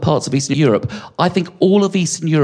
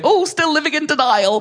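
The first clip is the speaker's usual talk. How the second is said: mum's knowing jibe; 13 semitones higher than usual. Retold or imitated. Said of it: "My mum would be going".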